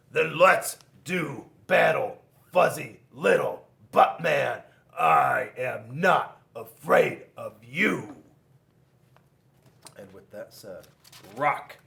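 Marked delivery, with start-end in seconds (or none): 0.1-8.2 bold challenge. A narrator's reading. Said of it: "And Rock said".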